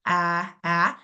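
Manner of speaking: a said as a clear, open, stressed vowel; isolated vowel. Shown as a demonstration. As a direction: sound out the a in salad on its own. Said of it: "actually says its vowel".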